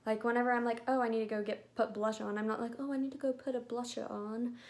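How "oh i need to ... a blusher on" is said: lightly put-on European accent, softer; mock European accent, badly faked; a hint of a fake European accent. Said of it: "I know that was the worst accent ever".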